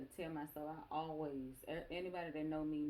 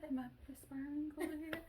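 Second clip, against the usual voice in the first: playful high answer; 9 semitones higher than usual. Retold or imitated. Mom replying to caring daughter, playfully high. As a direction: answer in a high, put-on little voice.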